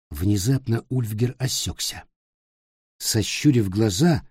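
ordinary delivery, nothing marked

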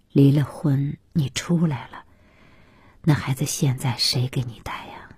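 gentle, low-toned inquiry; elderly father, concerned. Acted. Voices the father asking.

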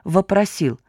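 usual speaking voice

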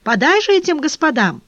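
high, startled shout just woken; half-asleep shout. Acted. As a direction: yell it out still half asleep. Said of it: "и спросонья закричала".

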